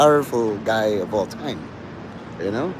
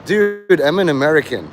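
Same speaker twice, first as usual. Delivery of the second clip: exasperated protest; 2 semitones higher than usual. Retold or imitated. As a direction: protest with one long, raised word. Protesting his Americanness in retold exchange.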